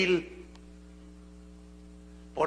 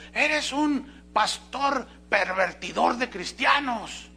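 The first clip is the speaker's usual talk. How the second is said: slow, higher, scornful reading of "Eres un pastor pervertidor de cristianos"; mock accusing read; 5 semitones higher, slower than usual. Preacher reads an angry email aloud, slow and mocking. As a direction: read out the insult with mock outrage. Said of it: "como alguien me mandó un correo".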